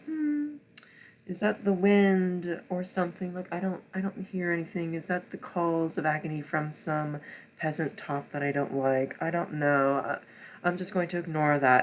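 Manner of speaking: soft, breezy feigned ignorance; a hint of a careless prince; airy dismissive mockery. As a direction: play the oblivious one lightly. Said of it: "was just like".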